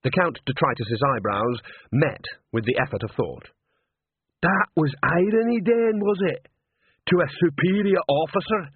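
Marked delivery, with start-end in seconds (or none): 4.4-8.7 high-pitched, offended troll; high troll voice of reproach; indignant troll. A narrator's reading. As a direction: pull rank as an affronted troll. Troll challenges his subordinate's irony.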